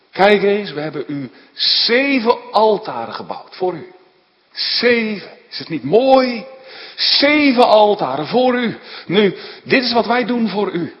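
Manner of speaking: loud, high, eager coaxing; a bargaining prophet, loud and eager; eager showing off. Acted. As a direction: push the seven altars on God proudly. Balaam flaunting his offerings to God.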